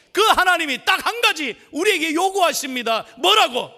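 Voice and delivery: building to a high, loud peak; rising repeated phrases, driven harder each time; impassioned preaching. Real, not acted. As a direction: preach it at full force. Preaches building to full force.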